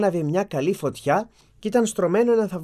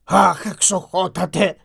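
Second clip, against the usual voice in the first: tearful plea; 2 semitones higher, 4 dB louder, slower than usual. Acted. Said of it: "γονάτισε μπροστά του κλαίγοντας".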